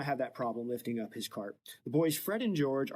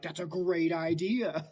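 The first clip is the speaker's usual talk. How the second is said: sly; 5 semitones higher than usual. Retold or imitated. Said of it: "they're like".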